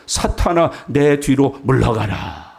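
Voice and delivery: stern rebuke, slowing on the command; harsh rebuke. Retold or imitated. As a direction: imitate a severe scolding, drawing out the ending. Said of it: "아주 험한 책망을 하셔요". (엄하게 꾸짖는 말투)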